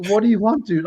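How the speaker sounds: high-pitched retold exasperation; exasperated. Retells exasperation at repeated questioning.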